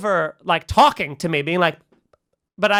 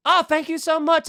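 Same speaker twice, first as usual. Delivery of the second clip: high-pitched, gracious thanks; empathetic and understanding; 7 semitones higher than usual. Retold or imitated. Comedian responding to an admiring fan, empathetic and understanding. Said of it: "I'm being very empathetic and understanding".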